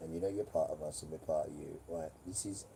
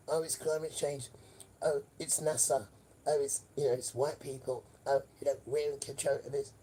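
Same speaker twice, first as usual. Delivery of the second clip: higher, louder, sing-song mockery; mocking them; 7 semitones higher, 4 dB louder than usual. Mocking what the authorities claim about the fires, in a high sneering voice. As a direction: parrot their excuses in a sneering voice. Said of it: "So they say".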